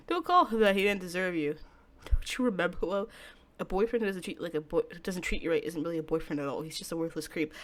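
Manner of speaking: a hint of a hushed, menacing lover; lightly voiced calm stalker, soothing and sinister. Takuya voiced again.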